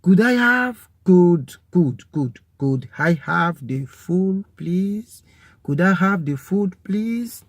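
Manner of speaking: could I have the food please, lifted high and polite; polite customer request. Shown as a demonstration. Teacher playing a polite diner ordering food. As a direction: ask the waiter nicely for the food. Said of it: "modelling a restaurant request".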